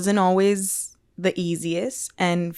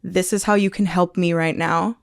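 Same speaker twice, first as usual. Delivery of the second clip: cheerful loving demo. Shown as a demonstration. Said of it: "it's like".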